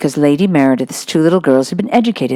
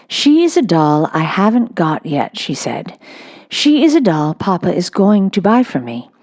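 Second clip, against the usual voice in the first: put-on a serious little girl explaining; Sarah. Sarah answers solemnly.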